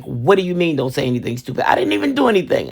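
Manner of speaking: put-on quick, indignant little boy who did nothing; befuddled kid. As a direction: rattle it off like a baffled four-year-old.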